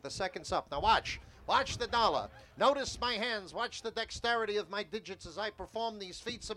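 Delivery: showman patter with a magic trick; sideshow barker. Shown as a demonstration. Barker doing dollar-bill trick to hold the crowd, showman patter. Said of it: "I'm gonna build a tip like I would normally".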